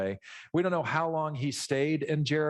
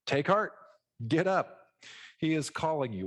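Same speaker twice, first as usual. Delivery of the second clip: sudden friendly tone; 3 semitones higher than usual. Retold or imitated. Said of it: "what a change in tone".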